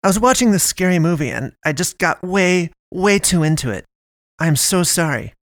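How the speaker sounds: high, embarrassed, hurried excuses; flustered Naomi. A narrator's reading. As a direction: talk your way out, embarrassed. Naomi keeps apologizing.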